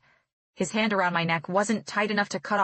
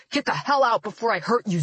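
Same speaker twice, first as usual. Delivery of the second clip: snarling threat; 3 semitones higher, 4 dB louder than usual. A narrator's reading. Keith threatens Zoe.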